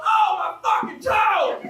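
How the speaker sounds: exclaiming over a stubbed toe; mock pained yell. Comic telling the crowd about a stubbed toe, mock yell. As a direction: let the pain out, half-shouted. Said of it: "you go".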